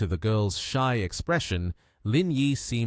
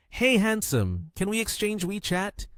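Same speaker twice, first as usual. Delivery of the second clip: flirty; 10 semitones higher than usual. A narrator's reading. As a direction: tease him sweetly with a higher voice.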